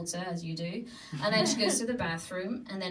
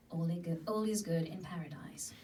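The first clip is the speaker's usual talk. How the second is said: whisper; 4 semitones lower, 5 dB quieter than usual. Acted. Calm bedtime narration.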